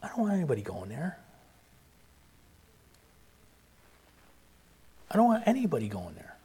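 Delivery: softly voiced words of God; quiet, quick plea after long silence; hushed plea. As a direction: plead it gently, under your breath. Voices God grieving over hell.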